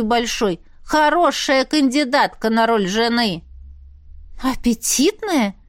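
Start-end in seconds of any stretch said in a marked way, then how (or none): 4.4-5.5 mock scoff. A narrator's reading. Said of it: "хмыкнула я".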